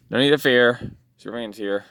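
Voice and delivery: hero voice. Acted. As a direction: play the calm rescuing hero. Superman reassures the toy.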